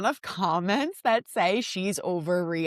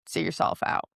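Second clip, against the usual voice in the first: whispered; 3 semitones lower than usual. Shown as a demonstration. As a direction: whisper it, no voice at all. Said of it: "repeated louder".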